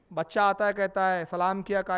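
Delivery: normal talking voice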